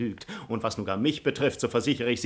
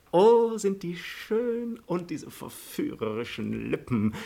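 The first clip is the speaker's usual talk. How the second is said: high, drawn-out swoon of delight; gushing, lingering rapture; rapturous admiration; 7 semitones higher, slower than usual. Acted. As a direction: marvel at her slowly, pitched high.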